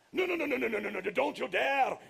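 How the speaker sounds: high, loud panicked no's; yelling. Acted. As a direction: shout him down in a panic. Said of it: "yelled the giant".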